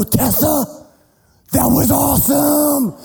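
excited cheer. Retold or imitated. Dad cheering daughter after the run, excited call. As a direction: shout your pride across the snow.

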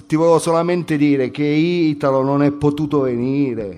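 lightly voiced slangy student; brash student character. Student explaining Italo's absence, brash character. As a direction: report it like a cheeky street kid. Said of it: "Devo entrare nel personaggio".

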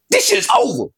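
very high, squeaky voice; Pinky. Retold or imitated. Fan giving up at halftime, high squeaky character voice. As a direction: shoot up into a high comic squeal. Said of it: "I had to pull out the pinky voice".

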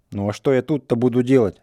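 sudden heated outburst; flaring up. A narrator's reading. Иван вспылил на деда, с жаром. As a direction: Ivan bursts out at the old man. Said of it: "опять взвился Иван".

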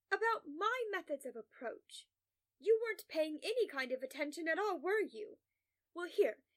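imperious, emphatic reprimand; condescending lecture. Acted. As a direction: talk down to a hapless intern. Lecturing and belittling a slacking intern.

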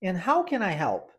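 "And how can I help?" paced slowly for repeating; slow model question. Shown as a demonstration. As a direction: model it gently, "can I" linked. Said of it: "Vamos tentar essa?". (pergunta modelo devagar para repetir)

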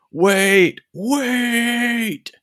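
high, loud cry of wait, stretched out; yelling old man. A narrator's reading. Old man running up behind the party, yelling loud and high for them to wait. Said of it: "is yelling".

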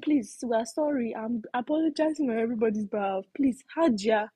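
retold apology, lightly acted begging; imitated pleading woman. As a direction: plead on everyone's behalf, in imitation. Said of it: "One woman was now doing".

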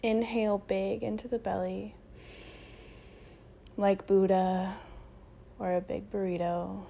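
unhurried meditation voice with long pauses; guided meditation. Acted. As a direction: guide them gently into breath and stillness.

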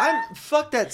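laughing through the words, slow. Real, not acted. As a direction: crack up while saying it. Laughing rant.

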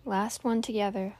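calm meditation guide with long pauses; guided meditation. Real, not acted. Host guiding listeners to tune out noise and breathe, meditative.

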